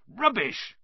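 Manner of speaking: high, indignant dismissal; Hagrid's dismissal. A narrator's reading. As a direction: dismiss it hotly, pitched high. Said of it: "said Hagrid again".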